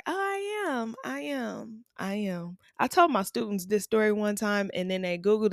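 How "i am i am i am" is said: proud confirmation. Retold or imitated. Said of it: "I was like".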